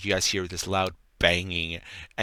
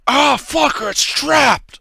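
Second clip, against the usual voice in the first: high, loud frantic yell; panicked shout; 11 dB louder, slower than usual. Acted. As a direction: scream it out in alarm. Trapped NPC yelling in panic.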